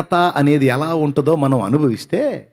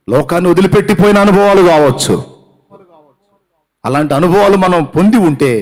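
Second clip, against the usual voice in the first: higher, louder impassioned preaching; preaching at full force; 6 semitones higher, 7 dB louder than usual. Acted. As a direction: call it out to the congregation. Preacher peak on bereavement.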